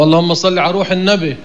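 النبي ending in a short "-be"; casual dialect phrasing, final y of النبي turned to e; local colloquial mispronunciation. Retold or imitated. Teacher quotes a local saying he forbids, colloquial ending. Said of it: "كما يقول بعض أهل بلادنا".

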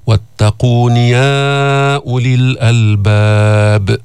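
slow, measured tajweed chant; Quran recitation. Acted. Teacher reciting verse to students, slow chanted recitation.

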